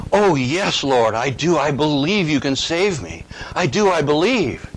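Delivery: lightly dramatized eager yes to a rescuer; eager pleading. Retold or imitated. Man on the branch answering the voice, eager pleading.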